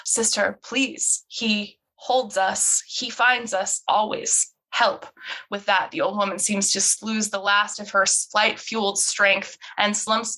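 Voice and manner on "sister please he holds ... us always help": weak plea. Acted. Injured old woman pleads.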